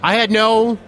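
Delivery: a hint of Obama's halting delivery; Obama impression. Friend mimics Obama denying spying. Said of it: "your Obama impression".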